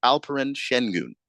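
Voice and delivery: "Şengün" with its S pronounced SH; SH sound in Şengün. Shown as a demonstration. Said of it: "like an S H kind of sound".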